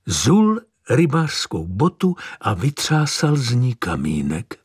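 plain reading voice

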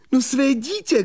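mnohem výš, zoufale vykřikne; křičí po svém dítěti; zoufalý křik. Acted. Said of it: "křičel znovu". (mladík zoufale křičí na vypravěče)

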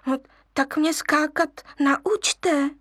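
a cub begging the monkeys; wheedling cub. Acted. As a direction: coax them to teach you. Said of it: "loudil lvíček".

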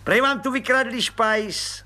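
high, slow, chummy little cop; grinning familiarity. Acted. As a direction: grin through it, overfamiliar. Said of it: "zubil se pan Pištoras jakousi důvěrností".

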